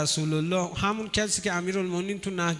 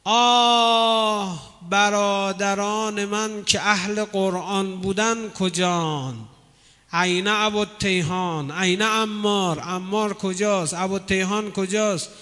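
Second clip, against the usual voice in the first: mourning cry; slower than usual. Retold or imitated. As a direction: call out the names of fallen friends with grief. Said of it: "بعد فریاد زد".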